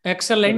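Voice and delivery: ఎక్సలెంట్ with a full LENT ending; last syllable of ఎక్సలెంట్ given its full vowel; common mispronunciation. Shown as a demonstration. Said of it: "It's lunt, not lent".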